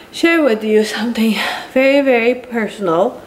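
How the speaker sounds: slurred, swollen-tongue speech. Real, not acted. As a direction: talk around a swollen, drooling tongue. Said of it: "I'm drooling, because my tongue is so swollen".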